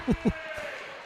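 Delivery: soft, short laugh; low-volume chuckle to yourself. Real, not acted. Broadcaster amused by the play just called, soft laugh. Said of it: "I'm laughing".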